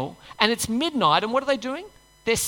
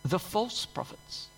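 scripture reading. Acted. Preacher reading Luke to the congregation, measured and solemn. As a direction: read the Beatitudes with weight. Reads the Beatitudes aloud.

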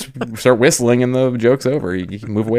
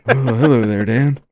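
a high, laughing folksy greeting; lightly voiced Jimmy Carter, cracking up; Jimmy Carter impression; 3 semitones higher, slower than usual. Imagines Jimmy Carter greeting Dan, high and laughing. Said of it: "picturing John Goodman and Jimmy Carter".

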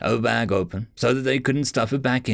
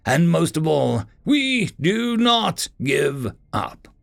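determined leader; 5 semitones higher than usual. Acted. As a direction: drive home each word. Zoe rallying the team.

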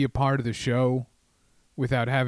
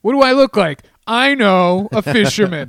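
high, loud self-answering host voice; Andrew Boydson hosting; 7 semitones higher, 10 dB louder than usual. Retold or imitated. Local host answers his own crowd question, high and loud. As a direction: ask and answer yourself like a goofy host. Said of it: "he'll ask a question".

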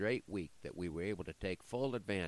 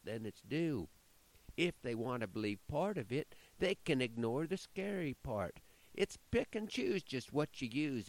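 sly demon voice; 5 semitones higher than usual. Acted.

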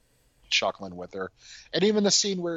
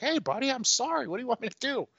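high-pitched exasperated apology; mock defensive apology; faster than usual. Painter excuses dropping the paint, high mock exasperated apology. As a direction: imitate a flustered man excusing himself, pitched way up. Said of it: "He's like".

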